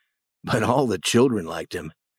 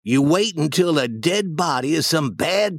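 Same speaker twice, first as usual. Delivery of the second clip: put-on higher boy's voice giving instructions; confiding boy, Huck; 6 semitones higher than usual. Huck teaching Tom a wart charm, earnest higher voice. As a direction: explain the cure earnestly, pitched up. Huck explains cat cure.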